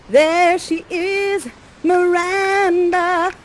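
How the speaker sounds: high, drawn-out announcing of a name; showy introduction. Acted. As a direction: present her grandly, stretching the name out. Presents daughter to the audience.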